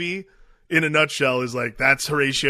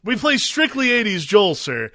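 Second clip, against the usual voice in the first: a lightly higher, louder put-on bandleader voice; a snooty musician, played for laughs; mock prim bandleader; 5 semitones higher, 4 dB louder than usual. Friend echoes the Step Brothers band in a higher voice. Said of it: "like that band in Step Brothers".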